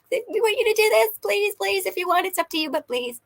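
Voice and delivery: pleading guides. Retold or imitated. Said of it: "They're like".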